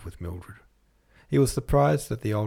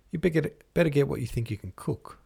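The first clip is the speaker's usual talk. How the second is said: laughing; 6 semitones higher than usual. Acted. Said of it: "laughed Philip".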